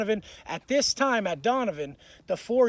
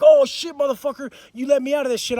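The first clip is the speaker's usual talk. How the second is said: raised, higher angry retelling; retold pissed-off outburst; 4 semitones higher, 7 dB louder than usual. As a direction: act out blowing up at him. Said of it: "I'm getting pissed".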